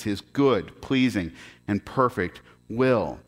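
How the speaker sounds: firm, measured public Bible reading; scripture reading. Real, not acted. Pastor reading Romans to the congregation, firm scripture reading. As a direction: read the verse out clearly and emphatically.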